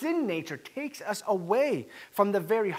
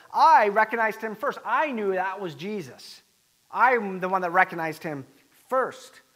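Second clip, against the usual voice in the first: emphatic, self-important claim, leaning on I; mock-boast with a loud opening; retold boast; 4 dB louder than usual. John claiming credit before the others, mock-boastful.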